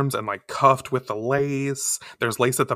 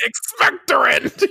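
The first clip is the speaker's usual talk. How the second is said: spell casting; 12 semitones higher, 4 dB louder than usual. Pretend. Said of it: "Harry Potter spell".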